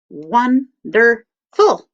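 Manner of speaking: Wonderful whispered slowly, one syllable at a time; slow syllable count. Shown as a demonstration. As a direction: tap out Wonderful syllable by syllable, hushed. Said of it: "So I'll show you how".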